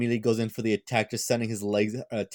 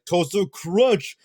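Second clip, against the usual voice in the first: higher, louder, drawn-out battle cry; mock attack yell; 7 semitones higher, 4 dB louder, much slower than usual. Marine Tosu yelling his attack name as he leaps, hammed-up battle cry. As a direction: ham up the anime move name, slow and high.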